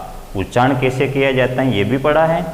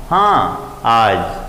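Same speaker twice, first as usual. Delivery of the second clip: हाँ, आज in a middle tone, neither raised nor lowered; svarita tone; 2 semitones lower, much slower than usual. Shown as a demonstration. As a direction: say आज at mid pitch. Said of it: "ये स्वरित है".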